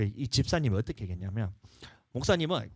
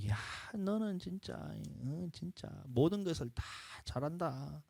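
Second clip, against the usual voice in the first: encouraging words; 4 semitones higher, 5 dB quieter, slower than usual. Shown as a demonstration. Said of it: "이런 말".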